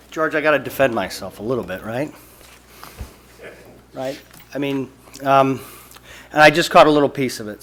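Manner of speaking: slightly winded, rushed; out of breath. Real, not acted. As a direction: talk while catching breath. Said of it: "I'm a little bit out of breath".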